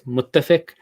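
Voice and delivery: muttafiq starting low on "mut"; low-pitched "mut" opening "muttafiq"; low tone on first syllable. Shown as a demonstration. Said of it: "so it starts low on mut".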